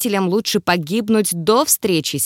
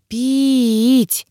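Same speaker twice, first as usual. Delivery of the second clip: moan; 4 semitones higher than usual. A narrator's reading. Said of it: "простонала я".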